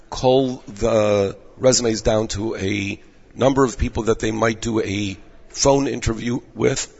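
hoarse, strained voice; losing voice. Real, not acted. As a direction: voice giving out, rough and tired. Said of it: "I'm losing my voice here".

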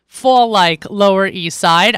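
slow and earnest, savoring it; wholehearted. Real, not acted. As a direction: linger on it with real enthusiasm. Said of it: "and I say this wholeheartedly".

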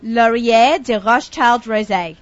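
very slow, careful attempt at French pronunciation. Shown as a demonstration. Co-host trying a French wine name for the guest to correct, careful French. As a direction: sound out the French name slowly. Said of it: "gonna try and say in French".

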